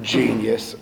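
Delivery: condescending. Retold or imitated. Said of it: "it was very condescending".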